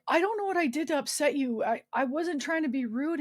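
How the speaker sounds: retold plea of innocence; pleading apology. Patient to an upset nurse, apologetic and confused.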